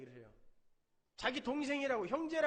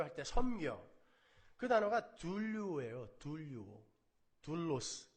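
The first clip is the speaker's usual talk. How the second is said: ordinary talk, nothing marked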